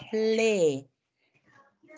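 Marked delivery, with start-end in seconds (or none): 0.1-0.4 เฟล with F and L blended; sound as written. Shown as a demonstration. Teacher shows how it is written, blended sound. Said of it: "มันจะเขียนออกเสียงประมาณเนี้ย".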